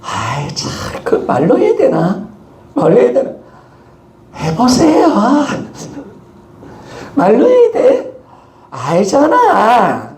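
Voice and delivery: squeaky embarrassed protest, high and slow; flustered husband. Retold or imitated. Pastor mimicking his own embarrassed reply to his wife, high and whiny. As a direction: dodge it, bashful and whiny. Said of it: "그래서".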